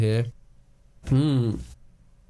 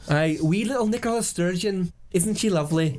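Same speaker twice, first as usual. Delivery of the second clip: cooing mock Scottish; lightly hammed Scottish accent; wee Scottish accent; 2 semitones higher than usual. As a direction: put on a cute Scottish lilt. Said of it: "kind of wee Scottish accent".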